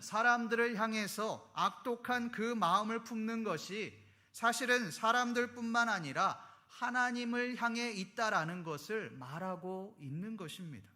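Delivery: ordinary talk, nothing marked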